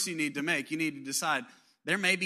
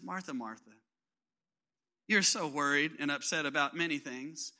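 gentle Jesus; 3 dB quieter than usual. Retold or imitated. Jesus gently answering Martha.

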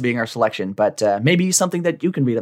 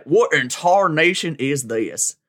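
put-on slow, baffled old-timer voice; old prospector; 4 semitones higher, slower than usual. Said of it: "cowboy in the future".

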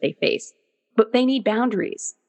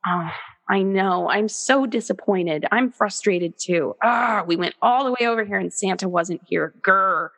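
put-on empathizing with child. Mother consoling her daughter over missing Santa, sympathetic. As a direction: share the letdown gently, with a playful grr.

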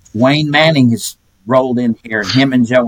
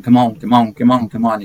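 impatient auctioneer. Retold or imitated. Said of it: "auctioneer banging his hand ... going".

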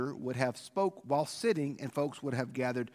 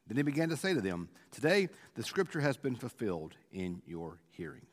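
scripture reading; 3 semitones lower than usual. Acted. Reads the scripture passage aloud.

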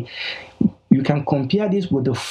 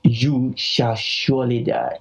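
slow, weighty delivery; slow, firm pronouncement; strong command. Retold or imitated. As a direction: spell out the command deliberately. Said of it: "God's command was very strong".

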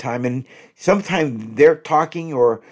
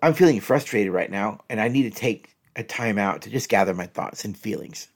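calm, softer tone; 4 semitones lower, 4 dB quieter than usual. Shown as a demonstration. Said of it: "I'll read that one again".

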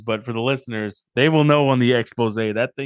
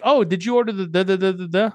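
higher-pitched mock drive-through greeting; chirpy order-taker; 6 semitones higher than usual. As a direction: lightly imitate a worker reading back an order. Acting out the drive-through worker.

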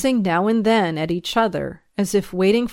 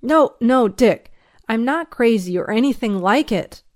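raised, desperate protest; higher, urgent denial; despairing cry; 4 semitones higher, 5 dB louder than usual. Acted. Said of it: "I cried out in despair".

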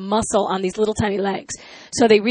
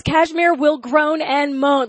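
slow, higher, emphatic read-out; mock screaming husband; 5 semitones higher, much slower than usual. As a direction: imitate him hammering out the paperwork line. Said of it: "he's screaming at me".

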